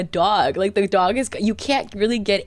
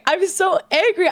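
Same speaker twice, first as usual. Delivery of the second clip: mock angry; 10 semitones higher than usual. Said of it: "she's like".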